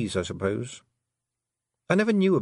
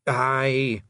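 happy Scots pixie; 3 semitones higher than usual. Acted. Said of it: "beaming happily".

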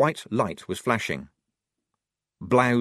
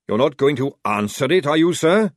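a touch of horrified alarm; louder, aghast question; 6 semitones higher, 8 dB louder than usual. Acted.

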